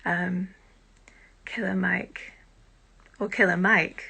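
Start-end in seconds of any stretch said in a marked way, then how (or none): 1.4-2.3 whisper. Real, not acted. Whispered name.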